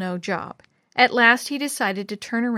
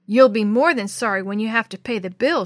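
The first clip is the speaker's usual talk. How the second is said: mock yell; 5 dB louder than usual. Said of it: "she yelled".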